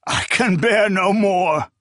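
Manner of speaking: high, broken sobbing plea. Acted. Tortured prisoner begging his captors, high sobbing. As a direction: sob it out, at the end of his strength. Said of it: "the man sobbed".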